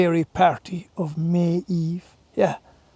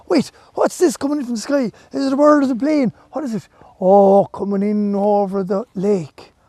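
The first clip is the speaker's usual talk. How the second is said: excited wonder. Acted. Animals spot something in sky.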